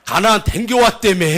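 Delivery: curious Chungcheong villager; Chungcheong dialect. Acted. Villagers question the returned spy, Chungcheong accent. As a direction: ask it in rural Chungcheong speech. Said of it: "충청도 버전으로 한번 해보도록 하겠습니다".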